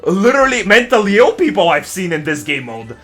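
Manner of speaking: heated rant. Real, not acted. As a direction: complain with rising heat.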